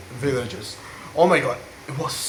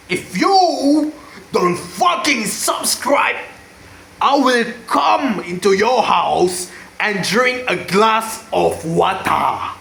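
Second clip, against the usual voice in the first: mock threat; slower than usual.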